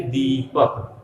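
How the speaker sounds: दीपक with the ī held long; long first vowel. Shown as a demonstration. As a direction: linger on the "dee" of दीपक. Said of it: "आराम से".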